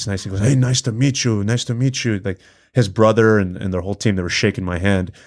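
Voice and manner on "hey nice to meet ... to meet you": put-on poorly done, butchered Russian accent. Retelling meeting Khabib in a training locker room, in a bad Khabib impression. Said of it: "obviously I'm butchering the Russian accent".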